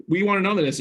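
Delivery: retold scream. Wife's repeat rising to a mild mock yell. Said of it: "she finally started screaming".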